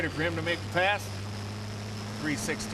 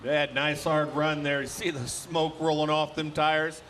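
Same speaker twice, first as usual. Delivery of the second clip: live announcer calling results; tractor pull announcer. Acted. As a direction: call it over the PA.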